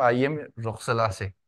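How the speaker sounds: "Ayem Roxelase" spoken slowly, each syllable separated; slow it right down so the class can copy "Ayem Roxelase"; careful model phrase. Shown as a demonstration. Teacher saying "Ayem Roxelase" slowly for students to repeat. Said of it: "tienen que decirlo".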